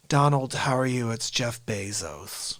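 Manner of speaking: low, slowing tech boss voice; Zuckerberg. Acted. Jeff Bezos greeting Donald on a call, lightly mimicked. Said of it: "I threw a little Zuckerberg in there".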